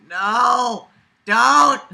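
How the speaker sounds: shouting no and don't; loud protest. Real, not acted. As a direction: cry out to stop it. Protesting the narrator.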